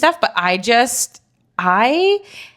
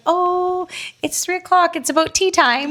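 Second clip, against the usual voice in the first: much higher, refined tea-time voice; posh tea lady; 10 semitones higher, slower than usual. Pretend. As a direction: play a proper English lady. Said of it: "I wanna be like".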